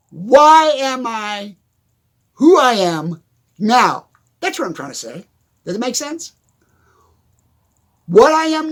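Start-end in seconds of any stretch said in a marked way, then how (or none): 0.1-4.1 slow, loud, word by word WHY AM I WHO I AM NOW; deliberate self-correction. Real, not acted. Speaker correcting his own fumbled question, slow and emphatic. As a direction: stretch out each word to get it right. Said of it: "Get it right".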